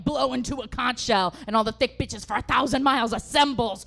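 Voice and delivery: loud, building battle speech; mock-heroic war tale building to a shout; mock epic rallying.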